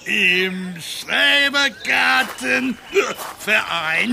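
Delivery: slurring tipsy speech; drunk. Acted. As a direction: talk like you've had too many beers. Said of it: "Du bist betrunken".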